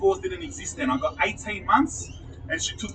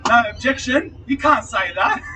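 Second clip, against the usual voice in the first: louder, higher courtroom objection; mock objection; 3 semitones higher, 5 dB louder than usual. Objecting to the detective in court, loud and higher. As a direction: call it out like a lawyer. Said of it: "I full pull out".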